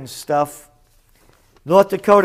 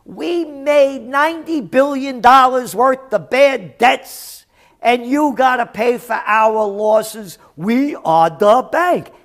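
a hint of an arrogant banker, louder and higher; mock banker; 4 semitones higher, 3 dB louder than usual. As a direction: play the smug bank talking down. Voicing banks demanding payment.

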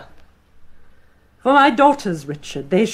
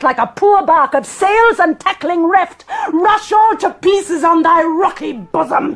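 higher, building to a shout; rising rage; 5 semitones higher than usual. Acted. Grieving queen rages at her sons' murderer, shouting. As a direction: let the rage crash on him.

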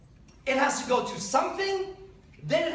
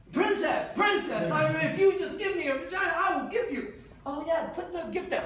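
higher pleading suitor begging the princess; lightly voiced courtly suitor, higher; mock suitor voice; 6 semitones higher than usual. Comic retelling of suitors bearing gifts, higher pleading suitor voice.

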